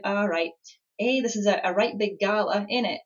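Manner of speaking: put-on light Yorkshire accent, casual and chummy; a friendly teammate from Yorkshire. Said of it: "Yorkshire accent impression there".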